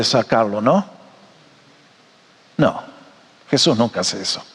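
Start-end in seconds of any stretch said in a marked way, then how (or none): none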